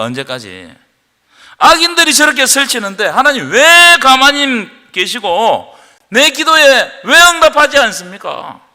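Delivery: 크게 따져 묻는 다윗의 탄원; 하나님께 언성 높여 항의하듯; 따지는 기도. Acted. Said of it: "다윗이 하나님을 향해서 막 따졌어요". (하나님께 큰 소리로 따지는 다윗)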